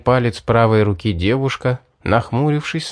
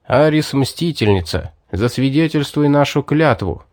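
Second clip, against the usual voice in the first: hero's oath in the narrator's own register; solemn oath. A narrator's reading. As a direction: invoke the goddess to witness a vow. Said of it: "произнёс я завершающие слова клятвы". (торжественная клятва)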